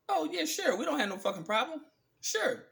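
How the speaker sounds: sarcastic mock agreement. Mock reply to the rulers.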